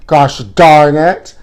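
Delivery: slow, drawn-out gosh darn it; mock exasperation. Vlogger mock-cursing the snubbing celebrity, slow and drawn out. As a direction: stretch it out in fake annoyance.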